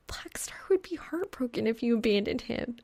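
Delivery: teasing remark. Acted.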